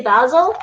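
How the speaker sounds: basil with a short first vowel, rhyming with dazzle; British pronunciation. Shown as a demonstration. Streamer guessing how British people say it, British-style basil. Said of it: "British people probably say basil".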